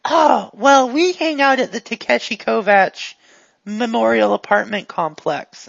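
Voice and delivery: lightly voiced eager goon; a hint of a guileless, upbeat helper; chatty, friendly character.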